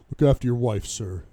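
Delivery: loud, firm start, falling away on sir; emphatic. A narrator's reading. Bodyguard directing his boss to his wife, emphatic. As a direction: urge him firmly but respectfully. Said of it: "Taylor's tone is emphatic".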